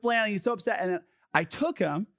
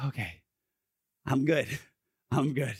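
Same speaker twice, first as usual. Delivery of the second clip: imitated calmed child; 3 semitones lower than usual. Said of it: "he's breathing calmed".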